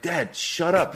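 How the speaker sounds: put-on mortified kid telling dad off; embarrassed teen hiss. Teen son telling dad to stop, embarrassed. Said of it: "And I'm like".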